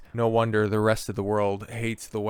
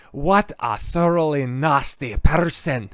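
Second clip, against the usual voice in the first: mock voice; 4 semitones higher, 4 dB louder, slower than usual. Reading critic's tweet mockingly.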